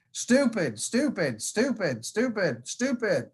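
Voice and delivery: mock-frustrated scolding of himself after the fall; imitating Zach's self-reproach. Zach cursing himself after cutting his arm, imitated self-scolding. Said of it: "you hear him saying".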